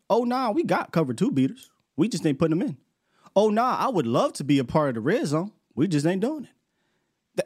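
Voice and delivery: fake-casual excuse; mocking Coop. Coordinator on radio brushing off fans, mock casual. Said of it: "Coop had to go on radio like".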